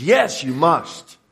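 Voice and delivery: slow, eager yes, lightly voiced; heartfelt yes. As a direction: say it slowly, welcoming him in. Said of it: "the answer of your heart is".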